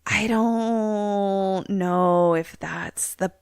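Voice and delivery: a slow, hesitant neighbor, lightly voiced; neighbor, slow and doubtful. Neighbor doubting the dad's plan, slow and hesitant. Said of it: "And the neighbor's like".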